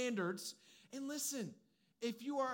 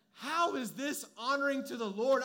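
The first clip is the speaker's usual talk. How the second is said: friends scolding; 4 semitones higher, 7 dB louder than usual. Retold or imitated. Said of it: "my group of friends said".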